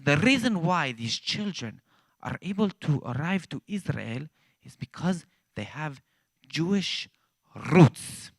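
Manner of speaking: a hint of Pastor Dennis's slow, earnest cadence; imitating Pastor Dennis. Teller mimicking pastor to ambassador, lightly imitated cadence. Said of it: "He actually talks like that".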